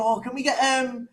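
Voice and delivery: lightly voiced children putting in a request; imitated kids' request. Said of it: "they go".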